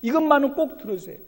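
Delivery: high, loud begging; pleading prayer. Acted. Preacher voices a believer's desperate plea. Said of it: "간절한 기도의 소원".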